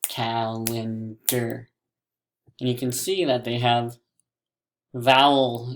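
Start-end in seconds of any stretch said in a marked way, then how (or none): 0.1-1.7 CALENDAR slowly in three beats, cal-en-dar; slow, separated CALENDAR; broken into syllables. Shown as a demonstration. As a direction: break CALENDAR apart, syllable by syllable. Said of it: "lines in between the syllables".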